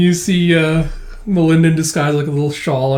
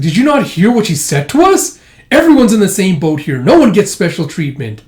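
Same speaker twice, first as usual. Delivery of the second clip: higher, louder mock telling-off; indignant scolding; 4 semitones higher, 5 dB louder than usual. Retelling a scolding about special treatment, indignant. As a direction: act out a sharp reprimand. Acted scolding in a retold scene.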